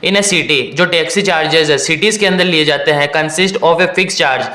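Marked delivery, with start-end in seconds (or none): 0.0-0.8 slow, deliberate reading of the question. Shown as a demonstration. Teacher reads the exam question to students, slowly and carefully. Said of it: "question को धीरे धीरे read करते हैं". 3.1-4.4 slow, deliberate question reading. Shown as a demonstration. Teacher reads the next phrase before explaining it, slowly. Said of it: "question को धीरे धीरे read करते हैं".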